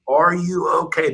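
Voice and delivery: half-voiced holler of concern. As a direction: imitate calling out to distant swimmers. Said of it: "now I'm getting louder and louder".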